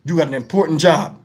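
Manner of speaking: low, solemn boss giving orders; mock boss orders. Imagined bosses instructing the flag guy, low mock solemn. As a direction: hand him the job with fake gravity. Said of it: "they must have told him".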